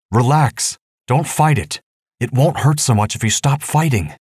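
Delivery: high, urgent called reassurance; yelling. Acted. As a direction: call out to calm her. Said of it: "yelling to Angelita".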